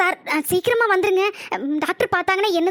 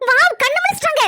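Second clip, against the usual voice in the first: happy surprise; 9 semitones higher, 3 dB louder than usual. Acted. Nurse sees patient wake.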